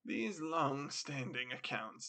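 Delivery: slow, sighing mock regret; a put-on weary sigh over business. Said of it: "with a sigh".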